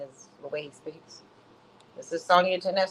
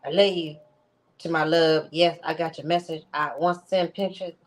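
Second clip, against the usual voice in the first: lightly voiced impression of a man's texts; understated imitation of the way he talks; imitating his way of talking. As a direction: mimic his speech, a touch. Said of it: "this is how this nigga talks".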